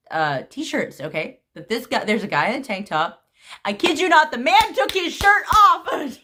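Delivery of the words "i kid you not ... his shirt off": higher, half-laughing disbelief; excited disbelief. Real, not acted. Shocked retelling of shirtless man.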